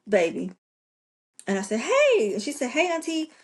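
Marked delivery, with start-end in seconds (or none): 1.8-2.3 high, loud casual greeting, retold; playing it off. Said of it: "play it off". 2.7-3.3 high-pitched imitation of a niece; imitated girl's greeting. Girl answers aunt's phone call.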